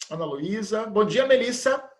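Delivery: normal talking voice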